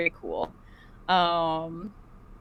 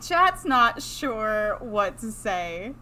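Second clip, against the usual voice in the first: slow ghostly drone; much slower than usual. Pretend. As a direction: drawl it like a ghost. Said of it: "this is our ghost intro".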